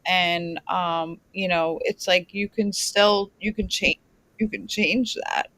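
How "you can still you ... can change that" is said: words catching in the throat; choking. Real, not acted. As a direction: talk through a choke. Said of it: "Sorry, now I'm choking".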